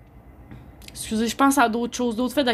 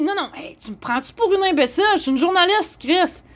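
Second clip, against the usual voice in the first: loud, higher angry retort; replaying telling Chris off, loud and higher; furious retort; 5 semitones higher, 3 dB louder than usual. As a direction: tell Chris off in a rage. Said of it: "je viens en furie".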